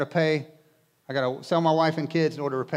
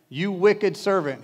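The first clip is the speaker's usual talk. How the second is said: slow and louder, a hint of a stern master; stern rebuke; 4 semitones higher, 5 dB louder, slower than usual. A narrator's reading. Master rebuking David in mild mock anger, slowly. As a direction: drag out the accusation heavily. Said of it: "he said".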